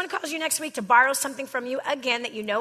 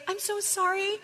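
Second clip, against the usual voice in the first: high, pleading mock apology after an outburst; hammed-up high contrite voice; remorseful apology; 6 semitones higher than usual. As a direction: act out the sorry person begging forgiveness. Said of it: "they say".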